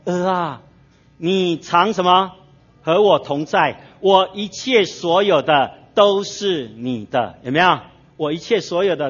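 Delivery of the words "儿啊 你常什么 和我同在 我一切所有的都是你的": slow, drawn-out and gentle like a loving father; father's tender words. Acted. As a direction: lean in and stretch each word. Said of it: "父亲跟他说".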